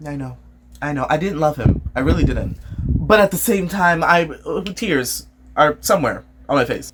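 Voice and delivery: a hint of a subdued widow; lightly voiced widow. Widowed wife admitting she didn't love him, mildly subdued. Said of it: "look like the widowed one who's like".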